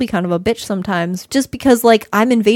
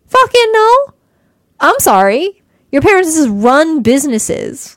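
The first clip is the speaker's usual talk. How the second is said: exasperated rant; 2 semitones higher, 3 dB louder than usual. Retold or imitated. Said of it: "And I was like".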